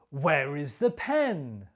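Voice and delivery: falling wh-question tune on "Where is the pen"; question intonation. Shown as a demonstration. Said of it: "listen and copy my intonation".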